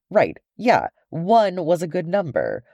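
dry, grumbling agreement; a hint of a sardonic dwarf; wry old dwarf.

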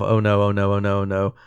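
low, soft repeated dismay; muttering to himself. Retold or imitated. Retelling trapped man in the coffin, muttering to himself. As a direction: murmur it as if only for yourself. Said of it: "just saying to himself".

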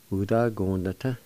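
"Wu, ta, gon, the, ta." run together as one word; joined-up pronunciation. Shown as a demonstration. Teacher giving learners the whole word "Wu, ta, gon, the, ta.", joined up. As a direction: link the syllables of "Wu, ta, gon, the, ta." smoothly. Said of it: "I'll pronounce these words".

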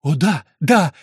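rising to a loud, high joyful cry; jubilant cry. A narrator's reading. Prisoner learns she is saved, jubilant cry. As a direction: burst out in joy. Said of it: "ликующе вскричала узница".

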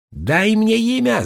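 put-on high ringing boyish shout; ringing cub shout. A narrator's reading. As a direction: call out high and ringing like a small boy. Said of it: "звонко крикнул он".

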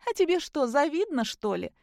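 a high, tipsy taunt that fades away; tipsy smiling taunt. Acted. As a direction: tease him with a drunken grin. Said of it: "хмельно улыбнулась Кристина".

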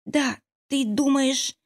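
a lightly voiced high squeak, slow and hopeful; squeaky hopeful. A narrator's reading. Exhausted friend squeaks hopefully at the midwife-heroine, lightly voiced. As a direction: squeak it out with weak hope. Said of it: "пропищала с надеждой Наташа".

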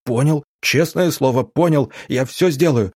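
high, hurried scared babble; babbling promise. Acted. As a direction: babble to please. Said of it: "залепетал Федя".

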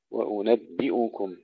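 وأنبئكم with a full i on the B then hamza u; clear kasra on ba. Shown as a demonstration. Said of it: "تحقيق كسر الباء". (تحقيق كسر الباء)

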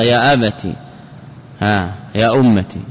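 يا أبت and يا أمتي each ending in short "ti"; brief i ending on أبت and أمتي; kasra on ta. Shown as a demonstration. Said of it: "بكسرهما".

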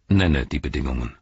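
calm, level and low; unmoved. Acted. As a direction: say it without a flicker of feeling. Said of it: "sagte Gandalf unbewegt".

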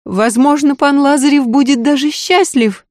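a scared maid begging her lady to listen; frightened maid. Acted. Maid warns the lady it is too late, pleading.

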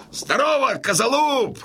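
put-on high joyful hail to an old friend. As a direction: call across to an old comrade. (радостный оклик)

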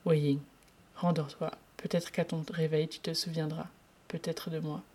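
soft, fading reassurance; gentle suggestion. Acted. Lan Zhan soothes Wei Ying to sleep, softly. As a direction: coax him back to sleep. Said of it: "suggéra-t-il".

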